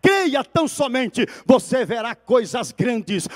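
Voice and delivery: mais alto, clamando as frases; pregação fervorosa. Acted. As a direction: prega com força ao encerrar. Encerramento pregando com força. (pregação em alta voz para a igreja)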